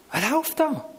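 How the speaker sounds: high, stunned "Was läuft da?" with "da" falling; incredulous cry of "Was läuft da?"; shocked outburst. Retold or imitated. Retells his own shocked reaction.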